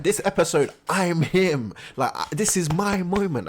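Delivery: lightly voiced cocky swordsman; cocky Shinji voice. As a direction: brag like it's your moment. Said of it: "he's just like".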